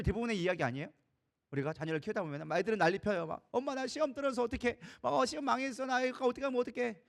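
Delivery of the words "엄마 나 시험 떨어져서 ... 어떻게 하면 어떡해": put-on panicky child. Child voiced panicking over exam.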